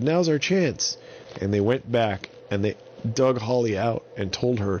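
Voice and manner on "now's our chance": high, eager whisper-call. Acted. Avon telling the others their chance has come, eager. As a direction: seize the moment. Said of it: "And Avon said".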